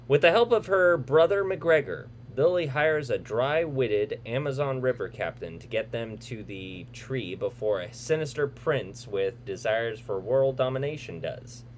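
dramatic trailer narrator voice; movie trailer read. Acted. Reads the movie synopsis.

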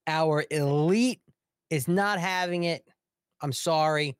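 hammed-up hand-wringing official; mock panic. Official frets over the new arrivals, mock panic.

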